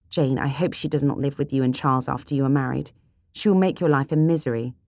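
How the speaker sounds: a touch of indignation on her sister's behalf; lightly voiced worried sister; outspoken sister, concerned.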